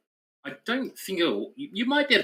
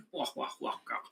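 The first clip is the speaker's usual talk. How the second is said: soft toffish wah-wah noises, much quieter; mock English-gent wah-wah; 13 semitones lower, 11 dB quieter, faster than usual. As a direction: burble wahs like an English old boy. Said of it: "I'm just gonna speak normally now".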